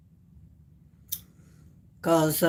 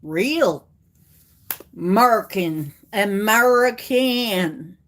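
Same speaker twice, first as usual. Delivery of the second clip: exaggerated American accent, drawn out at the end; hammed-up all-American voice; real American accent. Shown as a demonstration. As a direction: show off a put-on American accent. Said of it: "I can be real American".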